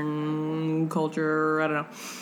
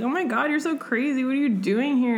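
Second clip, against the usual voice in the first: mock heroine; 8 semitones higher than usual. Heroine voiced in retelling.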